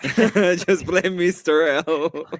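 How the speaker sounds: slow, laughing through words. Real, not acted. Echoing a joke while laughing.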